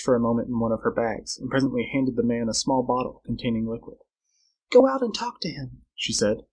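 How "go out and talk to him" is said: high female instruction; directing Flora. Acted. Girl sending Carl out to Tarzan, urgent.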